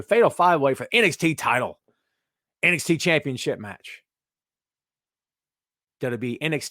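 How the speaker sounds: wrestling announcer call, every name hit in turn; mild ringside announcer read; commentating voice. Shown as a demonstration. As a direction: call the card like the ring announcer. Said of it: "This is my H V W hot voice".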